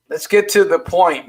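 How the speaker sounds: words through a real laugh. Real, not acted. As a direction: laugh it out, then get to the point. Laughing at his own question.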